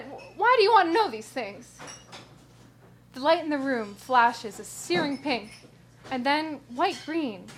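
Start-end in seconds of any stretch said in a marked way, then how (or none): 0.0-1.8 stammering, louder frightened question; annoyed and afraid. Acted. Lorna questioning Doctor Ted, annoyed and scared. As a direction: push back, scared and cross. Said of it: "caught between annoyance and fear".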